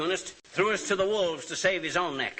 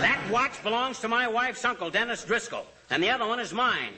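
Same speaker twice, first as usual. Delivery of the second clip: higher, heated protest; indignant; 6 semitones higher than usual. Acted. Husband protesting that the watch is his, indignant. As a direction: bristle at the light-fingered cops.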